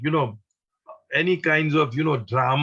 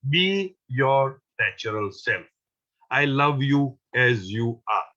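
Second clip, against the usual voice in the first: reassuring; slower than usual. Retold or imitated. Baba reassures the lady.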